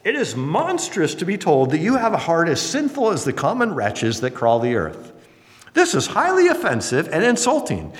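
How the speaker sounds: lightly voiced haughty aristocrat; mildly hammed-up offense at being called sinful; indignant duchess. Duchess of Buckingham replying to Lady Huntington, mock indignation. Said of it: "And the Duchess replied".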